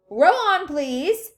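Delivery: high, loud call; called-out command. A narrator's reading. Wonka to the rowers, calling out. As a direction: sing out the order.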